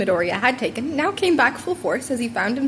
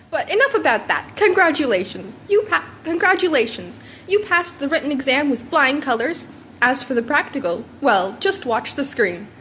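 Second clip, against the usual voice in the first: proud mentor, lightly voiced; hint of a booming hero, slowing at the end; All Might voice; 3 semitones higher than usual.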